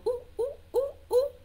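high, short monkey oohs; four quick, high oohs; monkey hoots. Shown as a demonstration. Teacher wrongly giving zebras monkey sounds, high oohs. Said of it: "The monkeys go".

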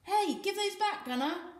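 high, loud protest; yelping. A narrator's reading. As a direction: yelp it up high. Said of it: "Volga yelped".

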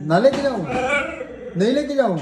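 high, swooping teasing question; teasing pet-talk. Real, not acted. Owner teases the pet about taking it along, high teasing pet-talk. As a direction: coo it high, like asking an excited pet.

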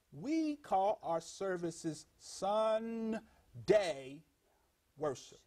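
SUN and DAY drawn out slowly, a pause before "worship"; emphatic word split. Real, not acted. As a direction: stretch "Sunday" into two slow words, then drop on "worship". Spelling out the word Sunday.

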